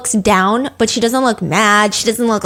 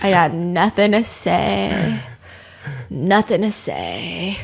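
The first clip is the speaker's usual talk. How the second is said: slow, softer defeated mutter; 4 semitones lower, 5 dB quieter, slower than usual. Retold or imitated. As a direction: give up, drained, trailing away. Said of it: "she was just like".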